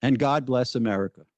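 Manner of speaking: put-on a light Greek accent, God said like "Kod" and bless like "pless". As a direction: gently imitate grandmother's Greek accent on "And God bless America.". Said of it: "would add in her Greek accent".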